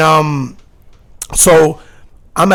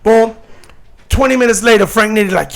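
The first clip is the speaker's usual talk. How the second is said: ordinary talk, nothing marked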